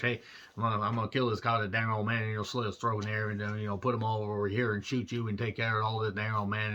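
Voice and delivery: put-on lightly mumbled Boomhauer-style accent; a hint of rambling, over-the-top Boomhauer accent; Boomhauer type accent. Reviewer mimicking a film killer's over-the-top accent, Boomhauer accent. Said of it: "an over-the-top Boomhauer type accent".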